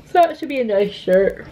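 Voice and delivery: words stretched by a yawn. Real, not acted. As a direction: talk through a sleepy yawn. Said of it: "sorry I'm yawning".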